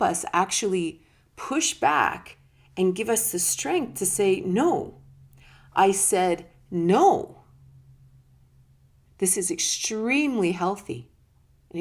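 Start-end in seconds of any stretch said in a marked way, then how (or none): 4.4-7.4 firm refusal. Retold or imitated. Anger pushing back, saying no.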